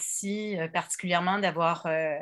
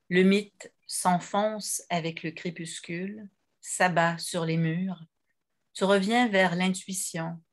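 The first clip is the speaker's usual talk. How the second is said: measured poem recitation with pauses between lines; poetry reading. Real, not acted. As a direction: read each verse apart, letting it settle. Quotes a poem aloud.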